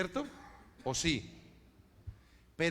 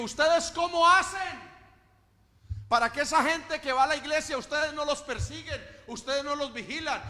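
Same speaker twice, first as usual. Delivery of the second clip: retold question; 8 semitones higher, 6 dB louder than usual. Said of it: "le hicieron una pregunta".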